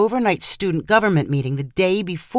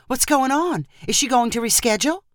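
a lightly flustered mom, hurrying the second question; rattled questions tumbling out fast; 6 semitones higher than usual. Acted. A worried mother questions her daughter about the interview, flustered. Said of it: "in a flustered voice".

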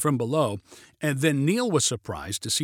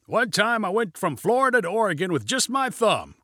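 pitched-up storytelling call; mild calling out; 6 semitones higher than usual. A narrator's reading. Pilot recalls his trip to passenger, mild call. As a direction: call it across lightly. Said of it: "called Junie".

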